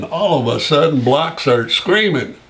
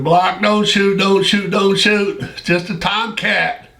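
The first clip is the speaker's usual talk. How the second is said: higher, urgent mock shout; retelling begging a buddy not to fire; imitating a frantic call, fading at the end; retold yell; 6 semitones higher than usual. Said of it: "I'm screaming".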